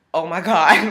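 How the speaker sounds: loud, laughing disbelief; laughing shock. Real, not acted. Patient hears she is pregnant, laughing in disbelief. Hearing from doctor.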